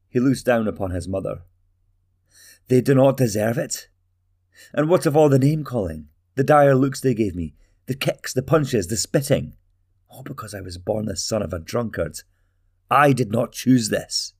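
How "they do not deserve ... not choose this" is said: higher and louder, resentful outburst; bitter anger. Acted. Talgo rages at his mother over his childhood, higher and louder. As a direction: spit out the old grievances.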